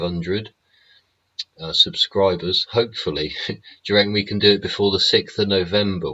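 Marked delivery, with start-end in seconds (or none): 3.5-6.1 laughing through the question; a laugh spilling into the words. Real, not acted. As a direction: chuckle while asking. Laughs while hoping for subscribers.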